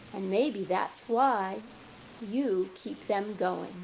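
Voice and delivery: measured poem recital with long pauses; poetry reading. Acted. Poet reading verse to an audience, measured and deliberate. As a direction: read it line by line, letting each phrase land.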